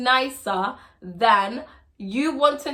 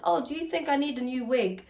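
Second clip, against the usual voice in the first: sweet question. Retold or imitated. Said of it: "I asked my husband".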